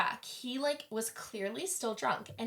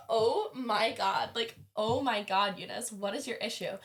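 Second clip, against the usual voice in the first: drawn-out, slightly louder retold dismay; mock exasperation; 3 dB louder than usual. We're all reacting to drunk Eunice, mock exasperation. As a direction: stretch it out in playful exasperation.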